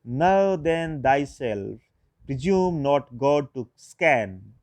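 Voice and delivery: slow, deliberate reading of verse, letting each phrase land; poem recitation. Shown as a demonstration. Teacher to students reciting Pope's couplet, slow and measured. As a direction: recite the couplet as poetry, very slowly. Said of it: "An example of heroic couplet written by Pope is".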